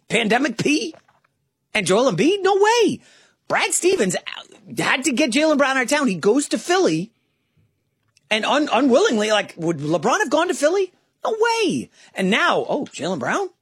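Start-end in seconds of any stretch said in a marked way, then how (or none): 2.4-3.0 emphatic no way. Real, not acted. Scoffing at LeBron joining. 11.2-11.9 emphatic no way. Real, not acted. Repeats scoffing denial.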